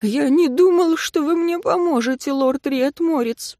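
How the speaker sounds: student apologizes to his rescuer; contrite. Acted. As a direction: admit it guiltily. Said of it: "покаянно признал Абрахам".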